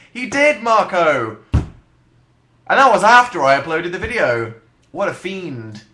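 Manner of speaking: loud, high indignant outburst; hammed-up scandalised complaint; mock outrage. Real, not acted. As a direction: cry out in comic betrayal. Mock outrage at friend spoiling film.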